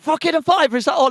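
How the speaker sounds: high, loud disbelieving imitation; mock amazed Chris. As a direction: play a friend stunned by a bargain. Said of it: "And Chris is like".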